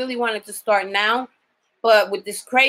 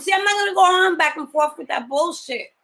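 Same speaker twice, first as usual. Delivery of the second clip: angry rant; 6 semitones higher than usual. Real, not acted. Ranting about the patient.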